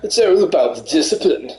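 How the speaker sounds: a light posh runner voice. Acted. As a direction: play a smug posh jogger. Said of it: "you've got that down".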